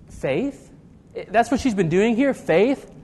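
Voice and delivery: questioning, with a rise on each "Faith?"; mock disbelief. Preacher questions Jesus praising the woman's faith, mildly incredulous. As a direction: puzzle over it as if doubtful.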